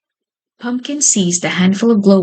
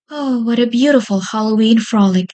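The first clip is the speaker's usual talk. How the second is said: sighing; 4 semitones higher than usual. Acted. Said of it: "sighed Babette".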